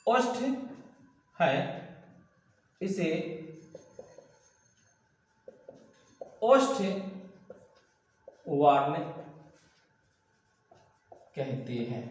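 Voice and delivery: slow, isolated words with long gaps; word-by-word dictation. Real, not acted. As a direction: dictate for someone copying it down. Teacher dictates while writing, word by word. (धीमा, रुक-रुककर श्रुतलेख)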